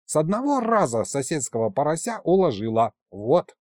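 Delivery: голосок повыше, хвастливо и бойко; расхвастайся, как простоватая девчонка; бойкая юная Кикимора. Acted. Юная Кикимора спорит с тётушкой. (молодая Кикимора хвастается царю, голос повыше)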